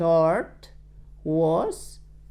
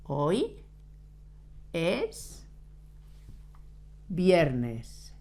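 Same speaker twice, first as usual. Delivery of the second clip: "Hoy", "es" and "viernes" each said alone with long pauses between; word-by-word dictation; 8 dB quieter, much slower than usual. Shown as a demonstration. Teacher dictates word by word so students can write. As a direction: dictate it one word at a time.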